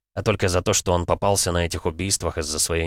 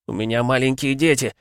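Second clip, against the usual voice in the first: higher, desperate begging; pleading; 7 semitones higher than usual. A narrator's reading. Constable begs the police chief, pleading high. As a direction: beg for mercy for the children's sake. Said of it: "взмолился участковый".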